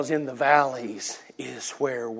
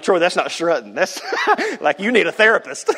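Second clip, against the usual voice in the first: laughing mock retort; 5 semitones higher, 4 dB louder than usual. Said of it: "You're like".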